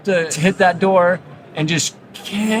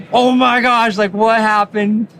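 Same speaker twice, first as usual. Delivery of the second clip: mock scream, higher and louder; a kid's startled cry, played for laughs; imitating a son's panicked shout, hammed-up; 6 semitones higher, 4 dB louder, slower than usual. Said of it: "starts screaming".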